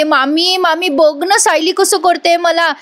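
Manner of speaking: high, drawn-out whiny tattling; slow, pleading mock tattle to auntie; fake whining. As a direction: complain like a wronged child. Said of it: "मुद्दाम कांगावं करते".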